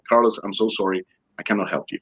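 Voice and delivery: soft, sinking apology; apologetic refusal. Retold or imitated. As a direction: let him down quietly, voice dropping. Uncle refuses help with regret.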